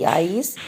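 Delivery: "आइस" with a drawn-out long i; slow, lengthened "आइस" as a reading model; stretched long vowel. Shown as a demonstration. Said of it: "हम खींच के पढ़ते हैं".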